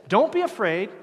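loud, high proclamation of Don't be afraid; booming reassurance; proclaiming. Acted. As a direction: call it out to the crowd. Moses' words proclaimed.

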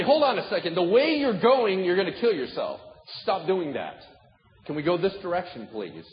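firm, loud warning to a friend; sit them down and tell it straight; harsh rebuke. Retold or imitated. Preacher voicing a firm warning to a friend, harsh and loud. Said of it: "Sometimes it's gotta get harsh".

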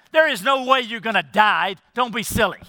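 mildly emphatic paraphrased denial; lightly acted, emphatic scoff; emphatic dismissal. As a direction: brush the idea off firmly. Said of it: "very emphatic, uh, statement".

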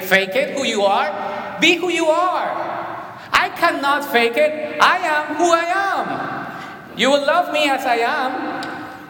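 normal talking voice

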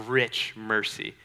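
RICH drawn out and set apart before mercy; emphatic, lingering "rich"; stress on RICH. Shown as a demonstration. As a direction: lean slowly on the word "rich".

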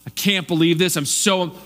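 mind blown, I can't believe this said in happy wonder; amazed and thrilled, the good kind of astonished; delighted astonishment. Shown as a demonstration. Preacher demoing good astonishment, delighted. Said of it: "When someone's astonished in a good way".

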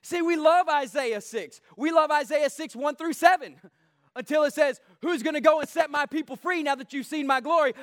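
emphatic, driving sermon voice; forceful preaching. Real, not acted. Preacher confronting the church about Isaiah six, forceful preaching. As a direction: press the challenge on the congregation.

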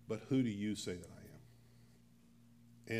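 a lightly voiced Jesus, unhurried; slow searching Jesus question. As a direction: ask it slowly, as if searching his face. Preacher voicing Jesus' question.

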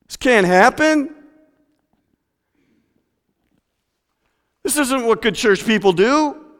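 high, indignant mock complaining; grumbling church folk. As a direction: play the outraged religious crowd. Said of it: "they muttered".

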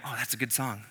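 soft, laughing aside while driving; half-amused drift of attention; mock distracted prayer trailing off into a laugh. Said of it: "And then I go".

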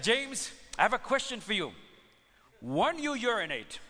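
stately phony physician greeting his patient; put-on doctor voice. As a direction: play a smooth prank-call doctor with a stage accent. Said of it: "this is Doctor Tang".

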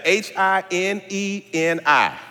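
H I N E N I spelled letter by letter, slowly; spelling it out. Shown as a demonstration. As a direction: spell H I N E N I out one letter at a time. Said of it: "Let me spell it".

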